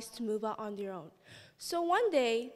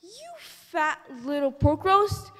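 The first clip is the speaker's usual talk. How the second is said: yelling wolf; 4 semitones higher, 6 dB louder, slower than usual. Acted. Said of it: "and yelled".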